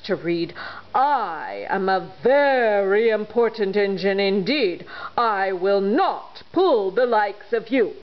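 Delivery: a hint of a proud, booming engine; pompous freight engine. Freight engine refusing the toys, mildly pompous. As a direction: puff yourself up importantly.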